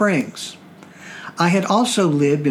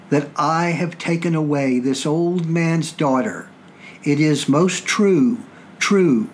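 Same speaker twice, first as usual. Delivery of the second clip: dramatic Shakespeare recital. Shown as a demonstration. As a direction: declaim it like an old-time tragedian. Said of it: "so I will read it first".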